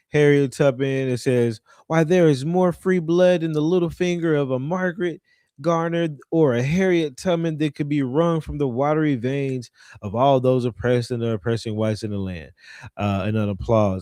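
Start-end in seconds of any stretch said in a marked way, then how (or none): none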